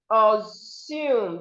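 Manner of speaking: "Assume" said as a-SOOM. Shown as a demonstration. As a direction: clear s and long second syllable in "Assume". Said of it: "The S here makes a sound".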